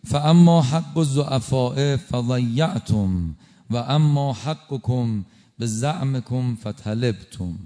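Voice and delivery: slow solemn Arabic recitation; Arabic sermon quote. Retold or imitated. Preacher quoting Imam Hussein's sermon, slow and solemn. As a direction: recite the Imam's words slowly.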